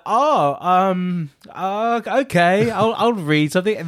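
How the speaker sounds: halting agreement, caught off guard; shocked, hesitant. Retold or imitated. Auditionee unexpectedly asked to read, shocked and hesitant. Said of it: "I was really shocked".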